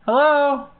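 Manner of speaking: usual speaking voice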